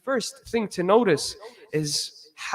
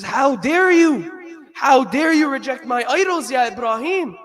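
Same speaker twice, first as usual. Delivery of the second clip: angry threat; 5 dB louder than usual. Retold or imitated. Father scolding Ibrahim for rejecting his idols, angry. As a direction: scold your son with outrage. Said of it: "He threatened him".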